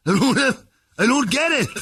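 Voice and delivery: high, loud laughing confused voice; confused husband. Retold or imitated. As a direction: sound baffled and laughing. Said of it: "he goes".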